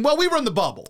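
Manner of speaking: whiny excuse-making imitation; mock his lame excuse; mocking Doc Rivers. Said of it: "it became".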